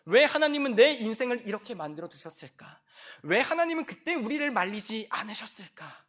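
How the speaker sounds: aggrieved sinner crying out; blaming sinner. Acted. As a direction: whine and blame God. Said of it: "누구를 탓하고 싶어해요".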